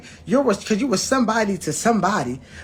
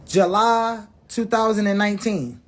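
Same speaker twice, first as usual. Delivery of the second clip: slow emphatic read; slower than usual. Shown as a demonstration. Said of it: "It say, what it say, y'all?".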